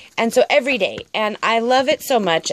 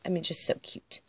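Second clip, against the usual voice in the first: much softer, breathy hushed gush; whisper; 4 semitones lower, 12 dB quieter than usual. Real, not acted. Vlogger whispers how cute her card is, hushed. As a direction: whisper your delight.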